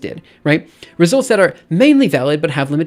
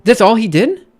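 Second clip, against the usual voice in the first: incredulous; 2 semitones higher, 4 dB louder than usual. Real, not acted. Scornful disbelieving questions about the author.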